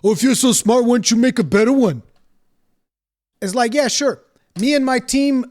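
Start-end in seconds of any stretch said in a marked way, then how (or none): 0.0-2.0 louder, fast sneering mimicry; mock the smug comeback; a hammed-up taunting voice; mocking whiny quote. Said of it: "the last resort of somebody that doesn't have an argument".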